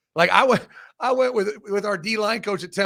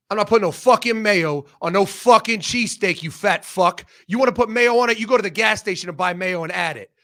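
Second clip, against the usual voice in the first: louder, retold rant with a few raised lines; mock angry shop owner; 4 dB louder than usual. Philly cheesesteak owner telling off the coach, mock angry rant. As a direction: bark it back like the cheesesteak guy refusing mayo.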